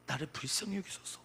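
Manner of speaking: subdued demonstration of pleading; modelled prayer plea. Shown as a demonstration. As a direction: start the cry gently, held back. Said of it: "하면서 우리는 소리쳐야 됩니다".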